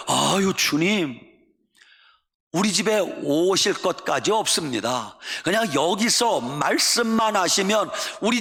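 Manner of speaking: earnest plea building to a shout; pleading centurion. Acted. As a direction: beg the master, rising to a cry. (간절히 외치는 백부장)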